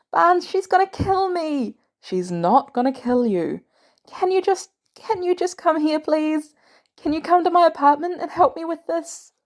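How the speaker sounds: high, frantic begging; panicked pleading. Acted. Peter panicking on phone.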